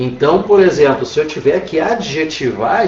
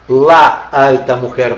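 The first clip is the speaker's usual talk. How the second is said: slow demo; 4 dB louder, slower than usual. Shown as a demonstration. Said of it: "agora ganhaste".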